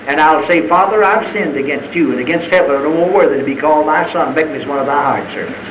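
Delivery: low-pitched penitent recital; subdued, contrite plea; humble confession. Acted. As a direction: lightly voice a repentant son, low. Voices the repentant prodigal son's speech.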